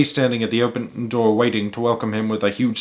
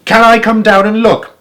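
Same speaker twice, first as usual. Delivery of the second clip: much higher and louder call; shouting back; 10 semitones higher, 7 dB louder than usual. A narrator's reading. Old man shouting down from his balcony, eager. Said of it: "Mister Hoppy shouted back".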